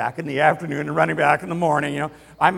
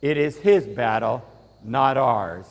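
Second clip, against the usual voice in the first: congregation read-along; 3 semitones lower, 5 dB louder, slower than usual. Shown as a demonstration. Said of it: "Let's say that out loud together".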